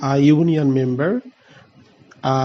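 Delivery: very slow, each word separate; slow example read. Shown as a demonstration. Teacher giving students an example, very slow. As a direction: lay out the example carefully. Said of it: "আমরা একটা উদাহরণ দেখি".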